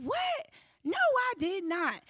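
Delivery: shocked denial. Retold or imitated. Accused of forgery in interrogation.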